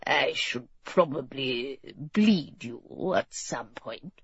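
low, soft and tentative suggestion; delicate. A narrator's reading. Doctor suggests bleeding to the sick king, delicately. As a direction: broach it gently, letting the voice drop away. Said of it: "Boo Boo continued delicately".

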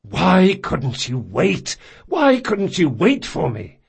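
high, slow, pleading lament; begging him to have waited; desperate plea. Acted. Jean pleads over dying Locke, high and slow.

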